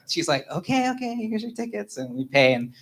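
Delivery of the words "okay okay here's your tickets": high-pitched imitation of a clerk giving in; mock appeasing clerk; flustered ticket lady. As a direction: hurriedly placate a pushy customer, in a raised voice.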